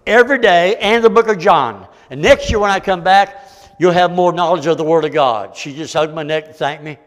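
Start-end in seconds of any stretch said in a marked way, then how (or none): 0.0-5.5 loud preacher's exhortation; forceful preaching. Acted. Preacher urging someone to read Proverbs daily, forceful preaching. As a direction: press it home like a revival preacher.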